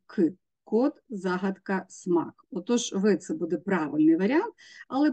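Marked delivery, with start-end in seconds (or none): 0.1-0.3 «к» as a hard k sound; твердий приголосний К. Shown as a demonstration. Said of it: "твердий приголосний". (твердий звук «к», окремо)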